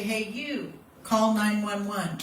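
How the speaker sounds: firm, slow, pointed order; single out one person and tell them; direct command. Shown as a demonstration. Instructor demos pointing at one bystander, a firm slow command. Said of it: "use your little pointer finger and say".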